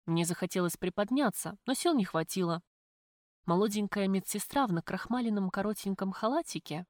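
usual speaking voice

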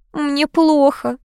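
high, slow, drawn-out whine; whining. A narrator's reading. Niece complaining about her tight outfit, whining. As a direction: moan it pitifully, dragging the words. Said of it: "заныла та".

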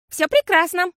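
put-on high, bright happy girl; радостно. A narrator's reading. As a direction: chirp it out joyfully. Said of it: "радостно ответила Фиасоль". (радостно, звонко)

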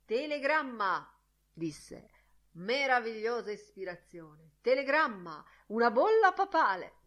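high-pitched delighted exclamation; renewed pleasure. A narrator's reading. Mulligan relishing his friend's telegram, delighted. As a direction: act out gleeful pleasure, pitched well up. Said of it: "sorridendo con rinnovato piacere".

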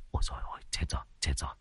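breathless frightened whisper; young man whispering so the wife won't hear; panicked whisper. A narrator's reading. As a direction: hiss it in terror.

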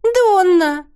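высокий громкий возмущённый окрик; выше и громче; Теа возмущена. A narrator's reading. (Теа громко, возмущённо)

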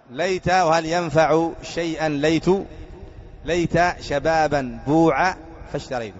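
slow, measured verse recital; reciting poetry. Shown as a demonstration. Teacher repeating the poet's verse slowly for the class. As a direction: draw the verse out word by word. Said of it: "أعيده".

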